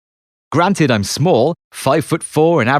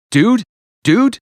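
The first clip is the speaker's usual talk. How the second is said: a high, louder call of dude; shouting; 9 semitones higher, 3 dB louder than usual. Retold or imitated. Matt charging into the room, shouting to his friend. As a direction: yell it as you burst in.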